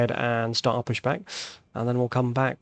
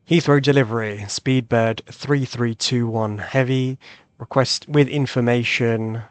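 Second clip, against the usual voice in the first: radio call; 4 dB louder, slower than usual. Shown as a demonstration. Pilot radio call to delivery.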